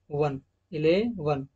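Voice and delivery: इलेवन said slowly with each sound drawn out; slow demo. Shown as a demonstration. Teacher slowing down to show students the schwa in a word. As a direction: spell out इलेवन slowly, syllable by syllable. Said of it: "okay".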